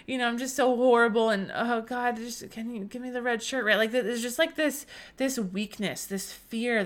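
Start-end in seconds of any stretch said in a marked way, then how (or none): 0.1-3.6 whining, begging prayer. Retold or imitated. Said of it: "this kind of whining, um, this begging, this pleading".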